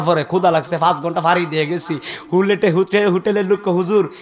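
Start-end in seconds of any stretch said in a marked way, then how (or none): 3.7-4.1 mock Sylheti. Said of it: "Sylheti ভাষা কথা কর না".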